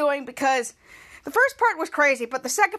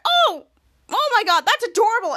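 much higher, louder squealing "Oh"; gushing Captain Man; 7 semitones higher, 4 dB louder than usual. Retold or imitated. Captain Man spotting the dog, gushing. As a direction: gush like he just saw a puppy. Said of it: "he's like".

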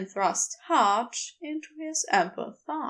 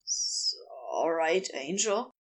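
low, soft, hesitant question; failed confidence; 8 semitones lower, 4 dB quieter than usual. A narrator's reading. Crowley checking on his angel, unsuccessfully feigning confidence. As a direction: stumble into it, trying to seem confident. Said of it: "trying his best to seem confident and failing".

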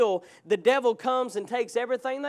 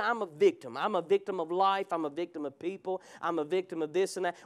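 mock victim whine; 5 semitones lower, 5 dB quieter than usual. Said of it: "we walk around with this attitude".

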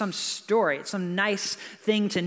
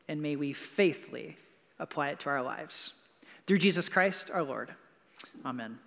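prayer. Acted. Pastor prays before the reading.

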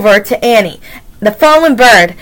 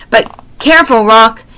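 shouting. Acted. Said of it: "Annie shouted".

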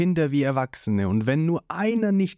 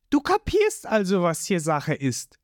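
put-on much higher, cold girl's voice; Nami's voice; 14 semitones higher than usual. A narrator's reading. Nami brushing off Zorro, high and cold. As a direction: dismiss him high and cool.

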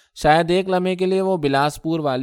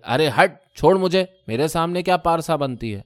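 struggling yell; 4 semitones higher than usual. Acted. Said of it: "چلائی".

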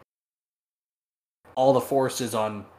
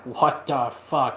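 slow dismay; slower than usual. Retold or imitated. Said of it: "his brothers are like".

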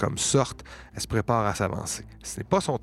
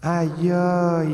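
higher, louder mock yelp; a wounded monster yelping in the heroes' heads; creature's cry of pain; 6 semitones higher, 4 dB louder than usual. The game master voices the creature yelping as the arrow hits. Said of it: "qui va crier dans votre tête".

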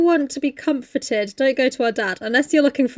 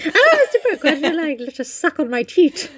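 higher, hammed-up greeting; mock swooning Meg; 4 semitones higher than usual. Sister parodying Meg greeting Mister Brooks, mock swooning. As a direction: gush at the suitor in mockery.

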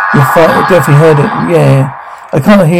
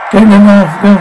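yelling; 4 semitones higher than usual. Acted. Yelling during a fight.

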